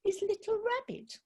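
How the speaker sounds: high, slow, offended little voice; indignant little rabbit. Acted. Little rabbit correcting the field mouse, high and put out. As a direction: correct him in a huff.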